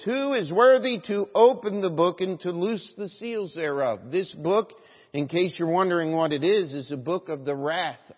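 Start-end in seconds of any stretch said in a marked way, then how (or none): 0.0-4.1 raised, ringing angel's challenge; loud proclamation. Acted. Strong angel before the throne, proclaiming in a loud voice. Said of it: "proclaiming with a loud".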